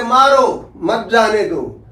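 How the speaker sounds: मारो on its own, then मत जाने दो falling away; pause after मारो. Shown as a demonstration. Teacher voices the accuser's demand, short break after मारो. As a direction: split it right after मारो, keep मत with जाने दो. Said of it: "के बाद कामा लगा".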